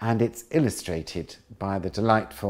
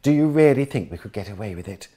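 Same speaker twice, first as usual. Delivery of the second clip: incredulous; 8 dB louder than usual. Acted. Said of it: "with an incredulous laugh".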